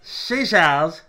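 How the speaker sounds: each word drawn out slowly; slowed-down tongue twister. Shown as a demonstration. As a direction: spell out She sells seashells one slow word at a time. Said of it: "She sells seashells".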